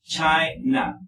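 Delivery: China drawn out in two parts, CHAI-na; syllable-by-syllable demo. Shown as a demonstration. Teacher shows the pronunciation, China split as CHAI-na. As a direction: stretch China, stressing CHAI, then a separate na. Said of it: "la pronunciación así es de esta forma".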